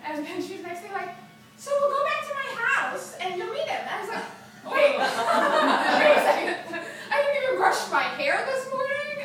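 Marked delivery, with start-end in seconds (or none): 1.6-3.8 higher, louder matchmaking friend; acted-out eager friend; pushy friend. Friend eagerly pushing a setup. 4.7-9.2 high, loud mock alarm; hammed-up panicked objection; startled protest. Acted protest at surprise date.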